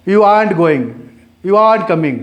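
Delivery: "aren't" said as aant inside the phrase; fast aren't. Shown as a demonstration. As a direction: drop the r in "aren't". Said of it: "जब fast बोलते हैं".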